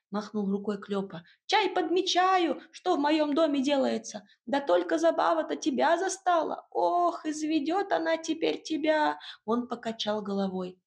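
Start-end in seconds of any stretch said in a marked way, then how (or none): 1.5-9.2 higher, brisk small-creature voice; a bustling little house spirit giving orders. Acted.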